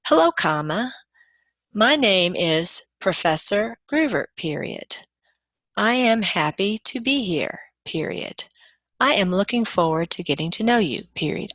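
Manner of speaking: reading the commas and periods aloud as words; spoken punctuation. Shown as a demonstration. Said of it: "I don't say".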